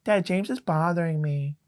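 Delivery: little brother tattling to Dad, whiny. Retold or imitated. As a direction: play the kid brother calling for Dad. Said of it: "my brother's like".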